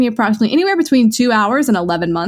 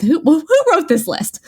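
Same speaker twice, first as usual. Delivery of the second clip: high laughing outburst. Real, not acted. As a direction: say it through a laugh. Mock accusation, laughing.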